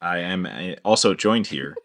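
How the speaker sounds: mechanical monotone robot voice. Pretend. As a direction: speak like a deadpan machine. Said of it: "Why you sound like a robot?".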